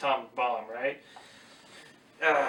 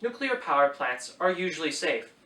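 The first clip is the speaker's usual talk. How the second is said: reading aloud; 2 semitones higher than usual. Shown as a demonstration. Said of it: "Direct quoting".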